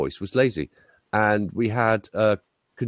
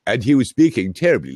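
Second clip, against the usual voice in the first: lightly put-on very posh English accent; Harold Wilson; 2 semitones higher, 5 dB louder than usual. Coach mimicking a politician in old films, posh accent. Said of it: "He had a very posh accent".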